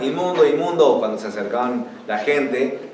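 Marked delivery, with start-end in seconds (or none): 0.0-1.0 higher, mildly raised imitation of a cry; mock warning cry. Lepers warning people off, imitated mild cry. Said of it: "Los leprosos debían gritar".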